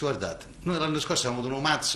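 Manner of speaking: ordinary talk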